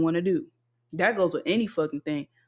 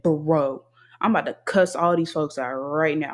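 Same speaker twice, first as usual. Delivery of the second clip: pissed off; 4 semitones lower than usual. Retold or imitated. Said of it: "I was pissed off".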